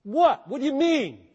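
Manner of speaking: sudden loud high "What?", bewildered; baffled what. Pretend. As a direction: act the confused listener who doesn't get it. Mock baffled listener reacting.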